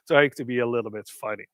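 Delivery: normal talking voice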